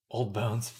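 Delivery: lightly voiced old man; a hint of an old man creaking. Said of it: "my old man voice".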